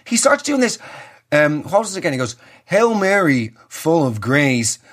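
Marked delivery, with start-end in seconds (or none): 2.6-4.8 slow, intoned prayer; drawn-out mock-solemn recitation; mock priest. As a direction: lightly imitate a priest reciting. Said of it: "big booming fucking mid-Atlantic drawl".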